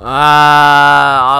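loud frustrated "ah"; a loud annoyed cry; frustrated groan. Real, not acted. Frustrated after dying.

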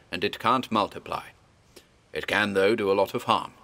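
lightly voiced old scholar, grave and urging; a hint of a learned old man steeling frightened farmers; Armitage rallying the men. Old doctor rousing the villagers to hunt the beast, lightly voiced and earnest.

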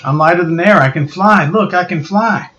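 lightly voiced southern boy, excited; southern accent. Johnny discovering his power, southern accent. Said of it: "why he has a southern accent".

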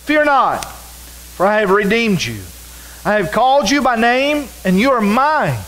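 preacher reading Isaiah aloud; scripture reading. Acted. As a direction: proclaim the verses to the congregation. Reads scripture aloud in sermon.

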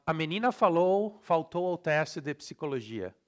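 Brazilian reading, syllables all sounded; Brazilian Portuguese accent. Shown as a demonstration. Teacher reading the next sample, Brazilian Portuguese accent. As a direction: read it Brazilian-style with full vowels. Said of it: "in Brazilian".

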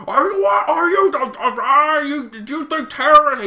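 put-on retelling a furious war vet yelling at young peace protesters; mock enraged veteran. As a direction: imitate a raging old vet who can't get words out. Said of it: "so mad that people were protesting".

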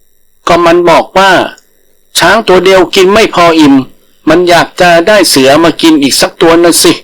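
a big tiger reduced to nerves; frightened tiger. Acted. Tiger telling the langur why he fled, nervous and high.

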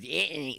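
"eh, eh" as a swallowed New York "Anthony"; New York pronunciation. Shown as a demonstration. Host decodes a New York name, clipped-syllable "eh, eh". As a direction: mimic New Yorkers reducing Anthony to "eh, eh". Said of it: "that's a New York thing".

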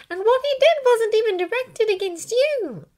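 put-on high, loud, insistent girl's voice; persistent Hermione. A narrator's reading. Hermione ignoring Draco's input, insistent. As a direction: press on over his objection. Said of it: "Hermione continued, ignoring his input".

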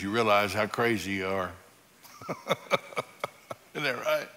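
usual speaking voice

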